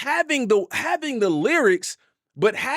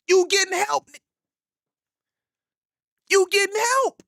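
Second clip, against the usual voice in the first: mocking retort; 12 semitones higher than usual. Mocking the rap line.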